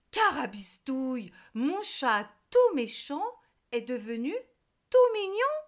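loud witch voice jumping very high on mignon; astonished witch. A narrator's reading. Witch amazed her mean cat turned sweet, rising to a squeak. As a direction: squeal the last words in disbelief. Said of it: "Elle se dit".

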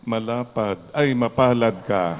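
tease, then correct yourself; teasing joke. Shown as a demonstration. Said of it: "Sabi mo sa katabi mo".

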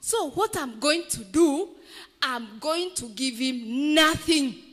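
bitter beggar turning on his helper; resentful beggar. Acted. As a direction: build up the grudge. Beggar decides to refuse.

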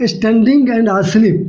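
very slow, each word drawn out; slow listing. Shown as a demonstration. Teacher slowly lists the exceptional words. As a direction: stretch each word so students catch it. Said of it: "exceptional case है".

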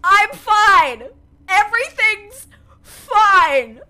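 high, loud and very slow; strained cabin crew reassurance; flight attendant voice. Acted. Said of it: "I sound like a flight attendant right now".

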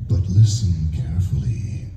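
slow, breathy almost-whispering boss; Zemnis. Shown as a demonstration. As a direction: draw it out slowly in a breathy voice. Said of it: "tell me with Zemnis what you're hearing".

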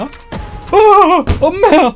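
loud, high yelp of fright; startled scream. Real, not acted. Player jump-scared in the game, startled scream. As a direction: yelp as if jumped at.

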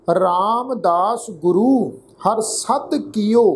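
slow, measured Gurbani reading; drawn-out words with pauses between phrases; scripture recitation. Shown as a demonstration. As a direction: recite the verse slowly, phrase by phrase. Recites scripture verse for a lesson.

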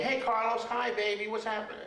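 put-on high, casual kid's greeting; cheeky kid greeting. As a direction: toss off a breezy street hello like a kid. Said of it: "little kids going up to you and going".

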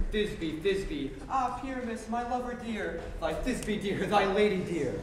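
high, loud squeaky lady voice; monstrous little voice. Acted. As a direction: squeak like a tiny fierce lady. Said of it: "I'll speak in a monstrous little voice".

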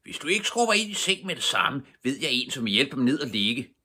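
loud, high roar of a furious father; roaring robber chief. A narrator's reading. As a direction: bellow the threat to bed. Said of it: "Og så brølede Mattis".

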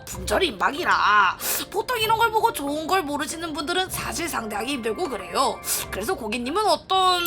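polite saleswoman voice; smooth sales pitch; customer service voice. Acted. Voices shopkeeper NPC.

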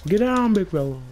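yelling at a monster to back off; shouting at the monster. Real, not acted.

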